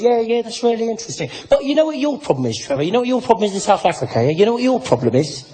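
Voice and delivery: pushy, insistent know-it-all; UK guy lecturing. Acted. UK man tells Trevor his country's problem, badgering voice. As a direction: press the point over and over. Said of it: "he goes, he goes".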